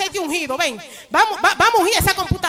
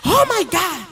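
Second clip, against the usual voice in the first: rising, ever higher oh my God; excited exclamation; 7 semitones higher, slower than usual. Retold or imitated. Coworker discovering the money arrived, climbing excited cry. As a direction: build from surprise to a high cry.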